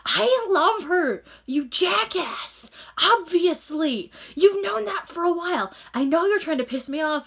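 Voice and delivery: high, loud, drawn-out indignation; acted angry outburst. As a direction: hurl each phrase at your rival, slowly. Acting Haru's angry outburst at Akito.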